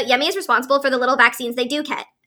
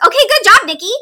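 sarcastic; 7 semitones higher, 7 dB louder than usual. Acted. Mock praise of a character.

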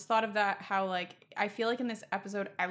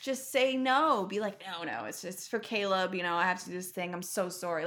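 exasperated scolding. Real, not acted. Fan lecturing Toby about his bad lies, exasperated and scolding. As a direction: tell him off, begging him to do better. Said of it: "scolding Toby's lying".

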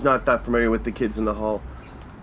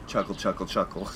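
mock dry chuckle; 5 semitones lower, 9 dB quieter than usual. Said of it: "the laughs are very British".

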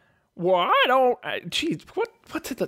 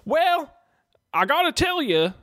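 Vankar voice; 6 semitones higher than usual. Acted. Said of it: "how did Vankar".

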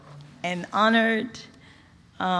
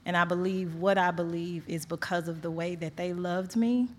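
holding back tears. Real, not acted. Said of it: "I'm trying not to cry".

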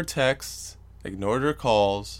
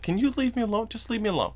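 high-pitched mock pleading; exasperated plea; 10 semitones higher, faster than usual. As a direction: whine to be left in peace, voice pitched up. Retelling his exasperated plea to ex.

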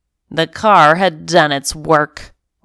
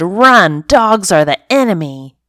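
mock scream; 3 semitones higher, 4 dB louder than usual. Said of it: "My instinct screamed".

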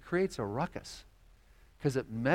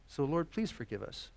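earnest pastoral prayer; closing prayer. Acted. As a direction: pray for the congregation.

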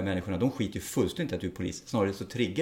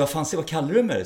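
louder, higher imitation of taking offence; mock confrontational; 5 semitones higher, 5 dB louder than usual. Police officer wrongly rising to an insult, mock confrontational. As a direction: play at squaring up, provoked. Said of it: "istället för att gå på sig".

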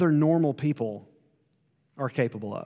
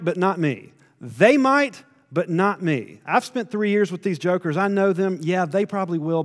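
lightly voiced Peter, brisk and self-assured; cocky Peter. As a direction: brush off the warning like a proud disciple. Peter brushing off Jesus' warning.

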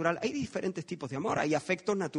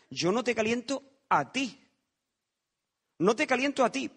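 indignant fire; 6 semitones higher than usual. Acted. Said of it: "Y él me dice".

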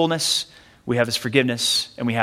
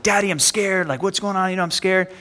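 put-on higher, mildly panicky child's plea; mock-frightened kid, pitched up; imitated scared child; 4 semitones higher than usual. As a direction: retell a little boy freaking out, lightly. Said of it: "like, kinda freaking out".

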